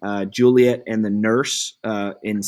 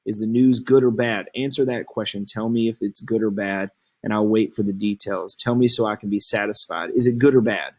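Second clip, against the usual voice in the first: impatient Juliet. Acted.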